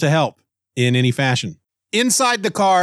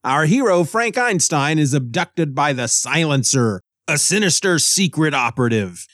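dramatic trailer voice. Acted. Teaser intro for the episode.

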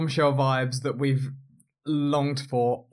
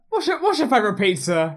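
high, laughing mimicry; pitched-up playful questioning; mock chirpy; 8 semitones higher, faster than usual. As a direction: imitate her eager small talk. Another host mimics pizza question.

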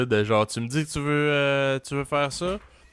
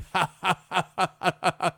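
villain laugh; 7 semitones higher than usual. Retold or imitated. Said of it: "Avec son rire de méchant".

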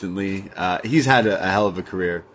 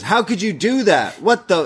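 upset Thea; 8 semitones higher than usual. Retold or imitated. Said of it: "And Thea goes".

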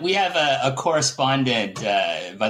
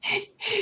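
short laugh; 6 dB quieter than usual. Real, not acted. Laughs at own inside joke.

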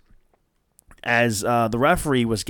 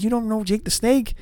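mock disbelief; 11 semitones higher than usual. Retold disbelief at girlfriend.

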